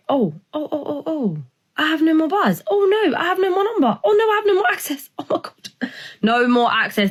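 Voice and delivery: high, wailing retold panic with a laugh; mock panic. To herself on losing her number, a high hammed-up wail. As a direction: replay the panic, voice way up.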